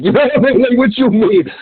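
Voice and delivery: laughing through a high, incredulous question. Real, not acted. To his cohost, laughing in disbelief at the rapper. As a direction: crack up while asking it.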